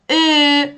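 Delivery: «ا» as a long, loud fronted ö; Turkish Ö vowel. Shown as a demonstration. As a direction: round the lips on a front e for «ا». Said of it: "این حرف رو دقت کنید تلفظشو". («ا» کشیده با صدای ö ترکی)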